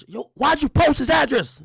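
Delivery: high, loud retold shout. Guard shouting at the streamer over the address, loud accusation. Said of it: "the dude is shouting".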